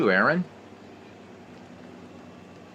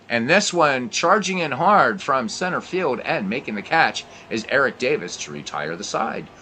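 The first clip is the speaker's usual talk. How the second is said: play-by-play. Acted. Play-by-play commentary continues.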